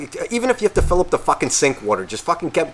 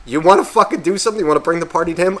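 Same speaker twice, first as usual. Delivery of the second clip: higher, sharp annoyed challenge; irritated; 5 semitones higher, faster than usual. Retold or imitated. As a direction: dare them, fed up.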